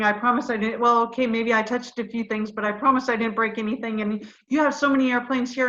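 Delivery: retold frantic begging, half laughing; tearful panicked babbling. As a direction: gush apologies like a scared teen caught trespassing. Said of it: "burst into tears and started just talking".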